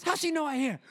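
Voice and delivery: put-on very high old-lady squawk; imitating yelling Italian lady. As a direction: yell back as grandma's Italian friend. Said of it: "these little Italian ladies yell".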